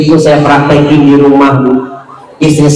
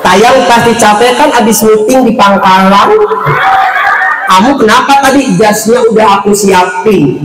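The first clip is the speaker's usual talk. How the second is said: higher, sugary doting voice; sweet wife; 5 semitones higher than usual. Retold or imitated. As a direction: fuss over him like a devoted wife. Doting wife welcomes husband.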